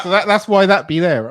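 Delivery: West Country accent slipping through; a touch of West Country; slipped West Country. Real, not acted. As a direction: let the West Country burr creep in. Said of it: "That's my West Country accent coming out".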